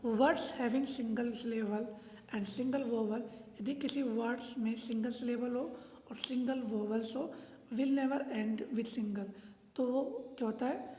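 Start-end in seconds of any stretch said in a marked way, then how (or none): 0.0-3.2 slow, word-by-word dictation of the rule. Shown as a demonstration. Teacher dictating a spelling rule, slow and deliberate. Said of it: "rule number eleven है हमारा". 7.7-9.3 slow, word-by-word dictation of the rule. Shown as a demonstration. Teacher dictating a spelling rule, slow and deliberate. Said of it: "rule number eleven है हमारा".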